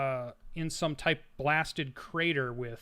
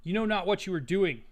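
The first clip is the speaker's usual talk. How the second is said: raised pitch, quick urgent warning, not fully shouted; mock yell; 5 semitones higher than usual. Robed woman warns the cultists at their ritual, mild high-pitched yell. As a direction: cry out a warning in a restrained yell. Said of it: "she yells to them".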